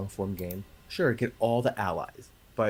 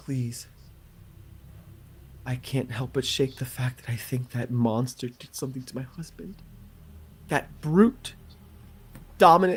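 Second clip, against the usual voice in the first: in-character, acted pleading tone; 2 semitones higher than usual. Voicing a character who has just stopped crying and asks for help: pleading as a distressed NPC. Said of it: "she will look up at you and she'll say".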